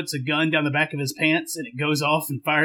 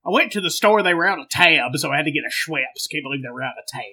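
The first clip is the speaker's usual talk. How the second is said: put-on Southern accent. Co-host chats about his ginger ale, Southern accent. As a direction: ramble like a comic Southern good old boy. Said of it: "to change accents".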